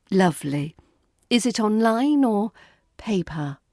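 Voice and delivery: lovely with cool, icy politeness; frosty-polite question; icy smile. Acted. Traveller hiding irritation behind icy politeness to clerk. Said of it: "the icy smile".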